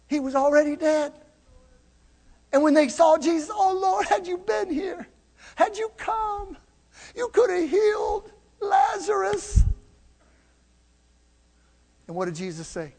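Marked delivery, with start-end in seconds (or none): 3.5-9.6 high, soft, crying plea; grieving lament. Acted. Sisters crying to Jesus that he came too late. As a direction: break into a tearful plea.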